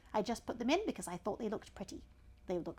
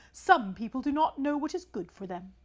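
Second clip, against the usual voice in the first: pompous python, a touch higher; snake voice; 4 semitones higher, 7 dB louder than usual. Acted. Python rock snake addressing the elephant's child, lightly voiced. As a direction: lecture the young traveller grandly.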